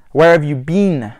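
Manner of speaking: "been" said as bean, long EE; British BEEN. Shown as a demonstration. Example question for learners, "been" as bean. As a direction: end on "been" rhyming with seen. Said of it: "is pronounced bean".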